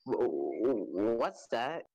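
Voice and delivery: stuttering, wavering question; stammered surprise. Acted. Story character spots something on screen, stammering in surprise. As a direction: stumble into a puzzled question.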